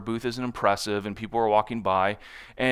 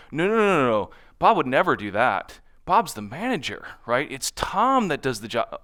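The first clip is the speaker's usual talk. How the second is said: raised, emphatic no no no; insistent correction; 3 semitones higher than usual. Retold or imitated. Client insisting Bob would never do that, emphatic. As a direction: cut in and set them straight.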